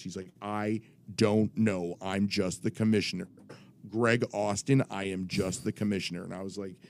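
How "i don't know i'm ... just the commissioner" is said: lightly imitated self-important official; a hint of pompous officialdom; authoritative commissioner. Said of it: "I'm doing his voice".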